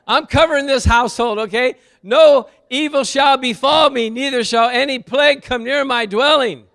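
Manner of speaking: loud, confident prayer over the home; bold prayer. Acted. Father praying aloud to cover his household, loud and sure. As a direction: declare it boldly, lifting the voice.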